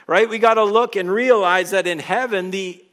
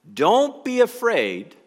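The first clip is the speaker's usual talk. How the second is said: slow reassuring repeat; 6 semitones lower than usual. Shown as a demonstration. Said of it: "Do you see that perspective change?".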